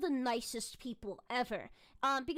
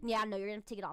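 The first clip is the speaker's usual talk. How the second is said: mock rude tone, lower pitch; 4 semitones lower than usual. Retelling what a rule enforcer at the gate said: imitating someone rude. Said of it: "this guy was rude".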